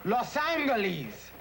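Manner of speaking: slow "Los Angeles" with a hard g, ANG-gel-eez; killer's pronunciation. Retold or imitated. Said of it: "The killer pronounces it".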